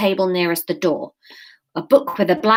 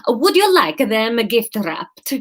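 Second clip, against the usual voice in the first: put-on slow Spanish-accented shop assistant asking; slow, careful Spanish accent; 3 semitones higher, slower than usual. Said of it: "We'll go Spanish".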